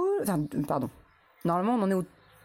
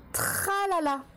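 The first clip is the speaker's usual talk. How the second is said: dictating a syllable; 6 semitones higher than usual. Shown as a demonstration. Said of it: "La dernière syllabe".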